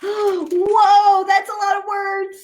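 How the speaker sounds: a big hammed-up gasp of awe at the page; mock amazement. Reading a silly book to kids, mock amazement. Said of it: "make silly sounds like".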